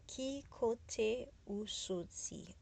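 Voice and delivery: very slow, syllable by syllable. Shown as a demonstration. Teacher leads learners to repeat after her, slowly. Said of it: "This one I have to probably say, uh, slower".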